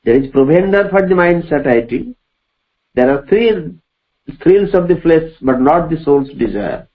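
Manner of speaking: measured, weighty reading of verse; slow poem recitation. Acted. Teacher reciting Savitri to the class, slow and solemn. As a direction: recite each line slowly, letting it ring.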